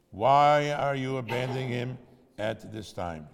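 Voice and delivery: loud, reproachful heavenly voice; booming voice from heaven. A narrator's reading. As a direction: boom the questions out from on high. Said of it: "heard a voice from heaven booming".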